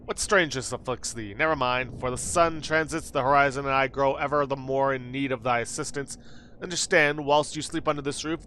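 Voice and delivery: a hint of stately old-fashioned lady; lightly voiced antique formality; archaic formal speech. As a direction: speak like a Shakespearean landlady. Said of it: "When did you start talking like this?".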